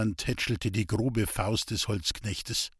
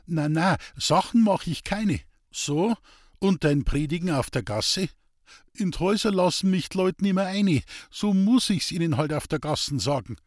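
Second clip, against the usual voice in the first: higher, eager dialect voice, defensive; earnest simple woodcutter; 7 semitones higher, 3 dB louder than usual. Acted. Hans-Peter defending his street preaching to the priest, higher and earnest. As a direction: plead your case like a rough honest man.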